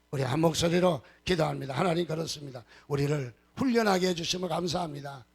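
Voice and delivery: forceful, declaimed congregational prayer; fervent prayer leading. Real, not acted. Pastor praying aloud with congregation about training, fervent. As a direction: lead the congregation earnestly in prayer.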